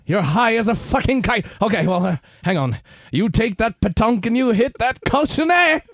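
high, loud British coach voice; British accent, loud; mock British accent. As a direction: coach bawling at his high player. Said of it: "accent britannique".

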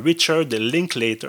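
English name in a Québécois French accent. Real, not acted. Podcast host naming the director for listeners, French-accented English. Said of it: "avec mon merveilleux accent anglais".

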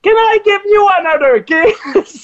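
sneak the kiss request in timidly. Retold or imitated. On air, he coyly asks the Spice Girl for a kiss.

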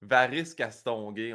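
"Varice Castonguay" said slowly, testing the name; slow trying out. Shown as a demonstration. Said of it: "on dirait que ça se dit".

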